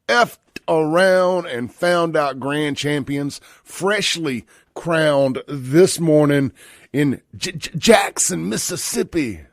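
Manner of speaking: drawn-out, stuttering hype announcement; rock-star-style hype. Retold or imitated. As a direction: stretch it out and stutter into the city name. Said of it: "as my friend Kid Rock says".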